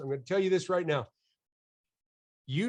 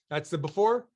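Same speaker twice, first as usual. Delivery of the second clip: ordinary talk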